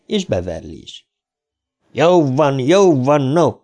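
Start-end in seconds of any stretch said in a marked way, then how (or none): 1.9-3.5 raised-pitch, mild cry of surrender; amused shouting. A narrator's reading. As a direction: call out over the laughter, half amused. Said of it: "kiáltotta Ricsi, és maga is nevetett". (nevetős kiáltással)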